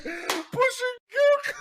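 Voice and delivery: long, high, laughing mock holler; cracking up. Shopper replaying the stranger's yell in the car lot, cracking up. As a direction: stretch the imitated yell through laughter.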